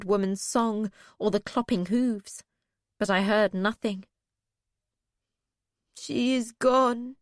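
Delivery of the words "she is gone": sad. Acted. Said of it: "Vindalia said sadly".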